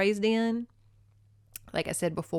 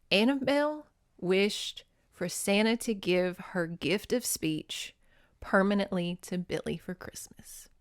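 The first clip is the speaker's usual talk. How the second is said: about to cry. Real, not acted. Host telling of Annabelle's sacrifice, close to tears. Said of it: "I'm gonna cry".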